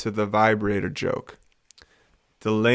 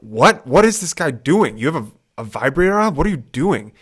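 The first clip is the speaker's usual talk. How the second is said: baffled crowd; 5 semitones higher, 5 dB louder than usual. Retold or imitated. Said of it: "and people are like".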